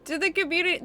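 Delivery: high slow squealing thanks; gushing, high-pitched thanks; excited. Real, not acted. Thanking donors, overwhelmed.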